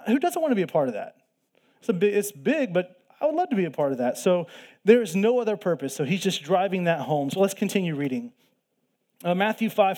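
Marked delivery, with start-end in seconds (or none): 0.1-4.2 eager burst. Real, not acted. Eager aside.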